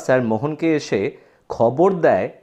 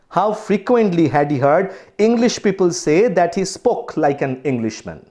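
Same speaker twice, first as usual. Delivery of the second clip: slow, deliberate textbook reading; story read-aloud; 3 semitones higher, much slower than usual. Acted. Teacher reads the story to students, slow read-aloud. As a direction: read the English text out slowly and carefully.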